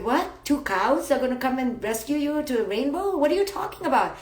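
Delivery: lightly acted disbelief, rising in pitch; mock bafflement. Listener reacting to the two cows belief, mildly baffled. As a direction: play a mildly incredulous listener.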